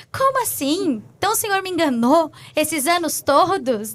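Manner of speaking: incredulous protest, re-enacted; retold disbelief. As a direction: question God as if let down, replaying it. Retells protesting to God in disbelief.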